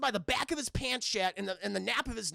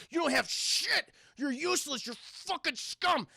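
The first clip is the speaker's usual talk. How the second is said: acted contempt; 5 semitones higher than usual. Attacker berates the handcuffed kid.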